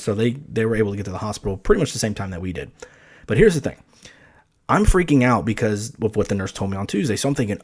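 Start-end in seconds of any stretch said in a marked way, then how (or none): none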